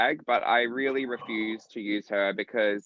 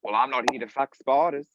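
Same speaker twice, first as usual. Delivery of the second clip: punchy entrance catchphrase; entrance line delivery. Shown as a demonstration. Asked by host, delivering famous entrance line with swagger. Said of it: "say it for me one more time".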